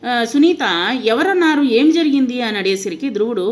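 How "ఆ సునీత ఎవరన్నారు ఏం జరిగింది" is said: put-on higher, louder, anxious questions to her crying boy; alarmed mother. A narrator's reading. Mother Suneeta alarmed by her crying son, asking loudly. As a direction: rush in worried, asking who hurt him.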